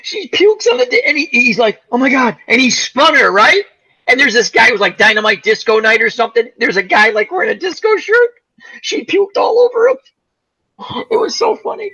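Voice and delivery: high-pitched giggly telling, barely holding it together; cracking up at his own story; laughing through it. Real, not acted. Cracking up telling friends how she puked on the disco guy.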